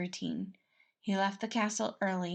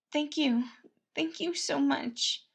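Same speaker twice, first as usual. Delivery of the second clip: grateful Patton; 7 semitones higher, slower than usual. Acted. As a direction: thank him from the heart.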